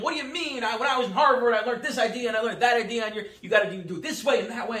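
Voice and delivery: half-hearted mock outburst at the boss; mock yell. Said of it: "yelling at him".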